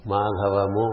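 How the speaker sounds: MADHAVAMU with an added final u; four-syllable Madhavamu. Shown as a demonstration. Teacher showing four letters, Madhavamu with the extra vowel. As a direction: end Madhavamu on an open mu. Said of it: "it becomes four letters".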